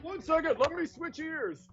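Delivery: put-on slowly fumbling old man.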